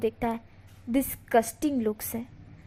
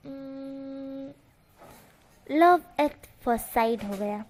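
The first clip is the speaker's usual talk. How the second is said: coy confession; much slower than usual. Acted. Villain confessing love to Wing.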